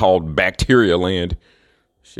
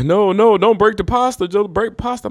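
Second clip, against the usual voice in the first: much higher, fussy pleading "No, no, don't break the pasta"; mock Italian cook; 12 semitones higher than usual. Mocking Italians who guard their pasta, much higher fussy voice. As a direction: squeal it like a horrified chef. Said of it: "They, they, they".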